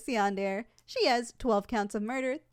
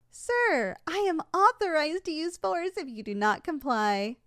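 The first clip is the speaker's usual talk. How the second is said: firm official threat, raised pitch on "Sir"; stern warning; 2 semitones higher than usual. Acted. Salesperson threatens customer with force, stern warning. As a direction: warn him sternly to comply.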